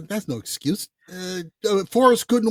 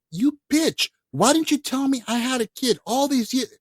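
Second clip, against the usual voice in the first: mock outburst; 6 semitones higher than usual. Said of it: "I would be like".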